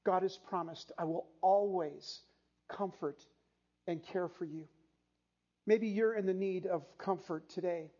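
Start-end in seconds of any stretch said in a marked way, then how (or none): 1.0-4.7 tender promise. Acted. Voicing God's promise, softening.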